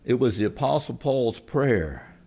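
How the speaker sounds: earnest closing prayer to God. Acted. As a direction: pray over the congregation.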